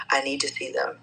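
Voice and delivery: breathy whisper of a longing thought; a hushed inner plea from the recovery room. Retold or imitated. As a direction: whisper it like a mother's private wish. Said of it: "just thinking".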